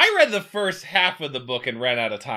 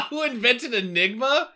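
laughing; 8 semitones higher than usual. Real, not acted. Laughing repeat of the question.

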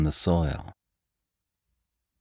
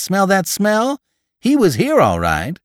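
high-pitched, worked-up assertion; agitated insistence; 13 semitones higher, 5 dB louder than usual. A narrator's reading. Gravedigger telling Jim to smell the box, agitated. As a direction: prove the point with voice raised high.

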